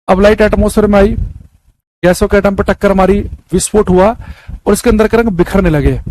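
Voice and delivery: easing the voice to spare a sore throat; speaking gently. Real, not acted. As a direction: go gentle and unhurried, saving the throat. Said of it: "अब मैं आराम आराम से बोलूंगा". (गले को आराम देते हुए धीरे-धीरे बोलना)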